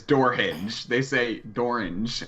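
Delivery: Southern accent. Shown as a demonstration. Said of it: "orange rhymes with dorange".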